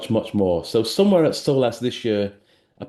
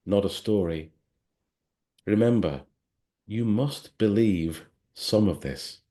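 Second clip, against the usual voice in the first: measured, unhurried recital of a poem; poem reading. Acted. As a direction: read it like a spoken-word poem, letting the lines breathe. Reads a poem aloud.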